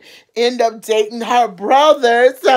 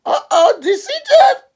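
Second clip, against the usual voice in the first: gossipy uh-oh; 13 semitones higher, 5 dB louder than usual. Retold or imitated. Gasping at mama's reaction.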